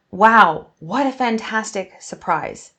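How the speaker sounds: a loud burst on "Wow", then "what a fantastic surprise" falling; exclaiming. Shown as a demonstration. Teacher showing an exclamation, delighted. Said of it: "I'm exclaiming".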